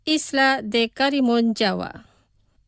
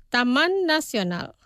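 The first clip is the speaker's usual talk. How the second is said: pronunciación despacio. Shown as a demonstration. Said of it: "Los pronunciaré despacio". (pronunciado despacio, para repetir)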